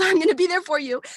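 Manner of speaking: light laughing reassurance in mom's words; laughing quote. Retold or imitated. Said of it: "And she was like".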